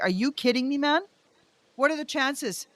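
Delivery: high, panicked, half-laughing wail; panicky disbelief. Retold or imitated. Panic attack over the artist across the street, high fretful wail. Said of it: "I'm like".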